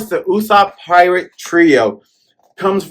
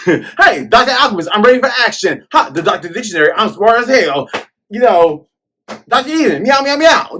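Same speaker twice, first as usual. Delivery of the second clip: mock roll call; 6 semitones higher than usual. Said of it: "don't they do that though".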